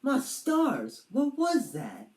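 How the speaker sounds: hammed-up startled dragon; startled fright. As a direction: jump at a sudden screech.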